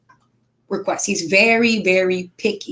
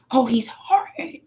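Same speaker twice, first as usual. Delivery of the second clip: whispered, slow mock grumble about a stubborn child; mock complaint; 3 semitones higher, slower than usual. Imitating people calling her son hard-headed, whispered. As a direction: hush it like a gossiping complaint.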